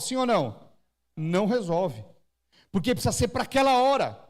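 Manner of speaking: ordinary delivery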